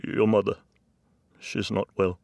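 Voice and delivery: crying father. A narrator's reading. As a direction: choke out bad news through tears. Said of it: "My dad was crying".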